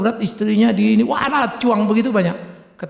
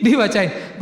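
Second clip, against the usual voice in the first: ordinary talk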